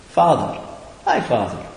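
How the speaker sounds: casual, offhand familiar greeting. Shown as a demonstration. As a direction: say it breezily, like a familiar hello. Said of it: "You can say it very familiarly".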